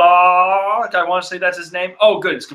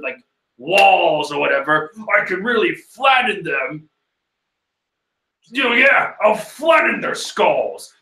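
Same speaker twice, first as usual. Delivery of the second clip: mock angry ranting, slowed; angry shout; 3 semitones higher than usual. Irinaka shouting about crushing the villains, mock furious. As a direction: threaten them like a hammy hothead. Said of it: "immediately shouts out".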